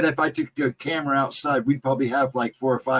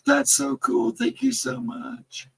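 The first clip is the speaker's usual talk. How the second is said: high, gushing thanks; mock excited thank-you, high and slow at the end; excited quote; 13 semitones higher, slower than usual. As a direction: squeal it back like a thrilled friend. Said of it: "She was like".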